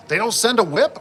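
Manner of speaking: mock Caleb's growing disbelief; disbelieving Caleb. Retelling coworker Caleb's questions.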